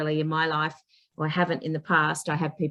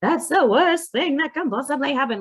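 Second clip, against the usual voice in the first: mock gloom; 8 semitones higher, 3 dB louder than usual. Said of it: "everybody else in her life was going".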